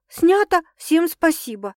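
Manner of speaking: a hammed-up director's call, high and loud; mock shout. Sasha imagining someone yelling cut, mock shout. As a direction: yell it like a film set wrap. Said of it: "кто-то и крикнет".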